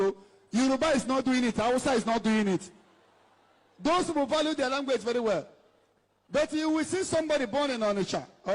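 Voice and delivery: normal talking voice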